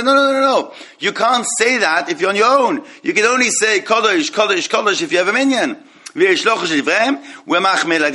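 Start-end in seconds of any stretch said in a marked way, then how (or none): 0.0-5.8 high, insistent no no no protest; lightly acted rabbinic opponent, pitched high; emphatic objection. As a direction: wave the idea away like a stubborn objector. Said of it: "Some say".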